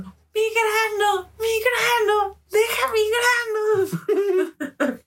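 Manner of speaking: high, slow wailing cry; drawn-out sobbing yell at mom; retold crying scream. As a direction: wail it like a sick kid in pain. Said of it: "me desperté gritando y llorando".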